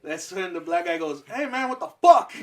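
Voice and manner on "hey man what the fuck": high, loud angry yell; loud, startled shout. Retold or imitated. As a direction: snap at him across the room. Black classmate yells at him.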